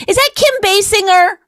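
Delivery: hammed-up eager husband questions; mock excited wondering. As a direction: ham up a husband sure he knows the actress. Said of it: "be like".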